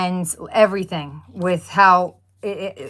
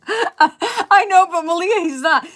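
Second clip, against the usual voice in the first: high, loud eager telling; bursting to explain; excited; 10 semitones higher, 6 dB louder, slower than usual. Real, not acted. Wife telling viewer Malia about husband, excited.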